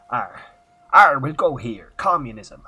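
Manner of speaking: loud Transylvanian-tinged pirate roar; Transylvanian pirate accent. Pretend. Streamer voicing a communist Transylvanian pirate, loud roar. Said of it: "we've gone Transylvanian".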